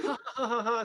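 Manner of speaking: mock canned sitcom laughter; imitated sitcom laugh track. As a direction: mimic a canned audience laugh. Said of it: "when they put these laughings".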